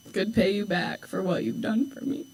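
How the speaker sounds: thanking mom while fighting back tears; crying. Real, not acted. Thanking her mom, voice cracking from real tears. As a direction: voice breaking with tears. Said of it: "Lost it".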